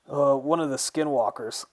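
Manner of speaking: loud, high, hurried reply; called-back answer. Acted. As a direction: answer loudly while still tied up. Trapped Kyle calls back an answer.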